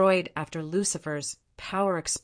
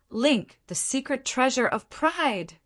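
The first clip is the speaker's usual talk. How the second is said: higher-pitched, measured command; slow incantation; 7 semitones higher than usual. A narrator's reading. Charlotte holding her crystal ball to link the secret treasure, saying it slowly. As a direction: say it deliberately, pitch lifted. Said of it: "saying slowly".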